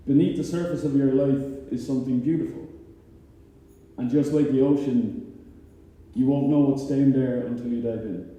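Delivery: measured recital of a short poem; spoken-word poetry with pauses between lines; poem recitation. Acted. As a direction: recite it from memory, line by line. Recites three-line poem from memory.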